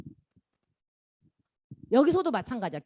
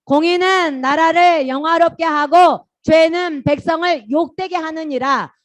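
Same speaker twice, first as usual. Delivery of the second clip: slow, loud, high chanted verse; loud group recitation; 6 semitones higher, 11 dB louder, slower than usual. Shown as a demonstration. Pastor leading children reciting a Bible verse, slow and loud. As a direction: recite it word by word like a class reading aloud together. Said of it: "공의는, 시작".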